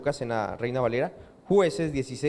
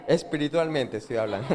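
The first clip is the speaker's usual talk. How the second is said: laughing; 4 semitones lower than usual. Real, not acted. Preacher laughing at own joke.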